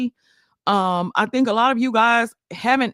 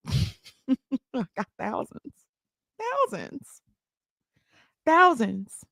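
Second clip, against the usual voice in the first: much softer, slow and hushed; quiet aside; 6 dB quieter, slower than usual. Real, not acted. Streamer to chat, hushed and slow. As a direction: drop it down to a hush. Dropping to a whisper.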